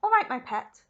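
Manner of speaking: soothingly. Acted. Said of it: "said Missus Salt soothingly".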